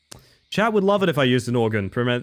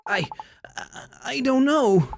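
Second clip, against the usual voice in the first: scared high voice; 11 semitones higher, slower than usual. Pretend. Cashier frightened, high and slow.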